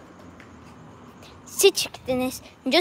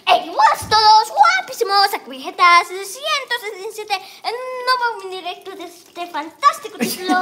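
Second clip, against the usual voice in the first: lightly voiced Spanish youtuber opener, a touch squeaky; a hint of a hyped stream intro from Spain; Vegeta impression; 3 semitones higher than usual. Boy shows the kids his Vegeta, lightly hyped and squeaky. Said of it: "lo hace como chillona".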